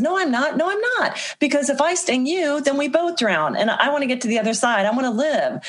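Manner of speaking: mock-earnest scorpion begging for a ride; pleading scorpion. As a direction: plead your case as the scorpion, lightly voiced. Scorpion pleads in retold fable.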